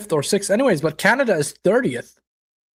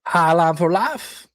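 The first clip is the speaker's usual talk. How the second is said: attempted Australian accent, slowly drawn out; bad Aussie accent; slower than usual. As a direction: try an Aussie accent and miss. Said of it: "I cannot do the Aussie accent".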